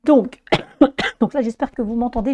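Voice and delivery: voix enrouée et fatiguée; voix éteinte. Real, not acted. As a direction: parle malgré l'extinction de voix. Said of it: "désolé pour l'extinction de voix". (voix cassée, enrouée)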